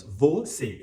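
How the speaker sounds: "Você" split as vo, cê; two separate syllables. Shown as a demonstration. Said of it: "duas sílabas".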